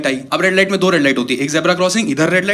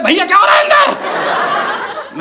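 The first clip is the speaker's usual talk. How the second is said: mock high call from outside, slow; worried call through door; 12 semitones higher, much slower than usual. People knocking on washroom door.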